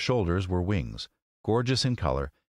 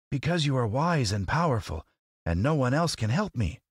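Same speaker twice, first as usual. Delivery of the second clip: lightly voiced earnest scarecrow, higher; humble plea in a raised pitch; 7 semitones higher than usual. A narrator's reading. Scarecrow flattering the lady wizard, earnest.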